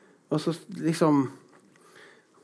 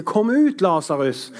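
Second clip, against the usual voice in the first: commanding call; 3 semitones higher than usual. Retold or imitated. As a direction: call the dead man out with authority. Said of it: "Jesus, han sier".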